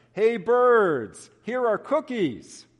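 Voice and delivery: loud high call to the birds; shouting. Acted. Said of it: "He shouted in a loud voice".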